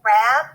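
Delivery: "rab" cut off as the first piece of rabbit; syllable alone. Shown as a demonstration. Teacher splitting rabbit for boys and girls, isolated syllable. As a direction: say just "rab", with a short a. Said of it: "in the first syllable".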